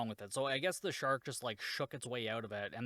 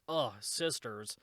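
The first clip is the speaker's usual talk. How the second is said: slow, drawn-out groan of annoyance; mock exasperation; 3 semitones lower, slower than usual. Lisa complains about sisters, slow mock exasperation. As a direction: imitate someone fed up, dragging it out. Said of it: "she's like".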